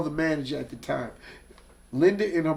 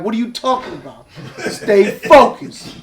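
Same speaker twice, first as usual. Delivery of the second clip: exasperated shout; 5 semitones higher, 9 dB louder than usual. Retold or imitated. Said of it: "He'd throw his hands up like".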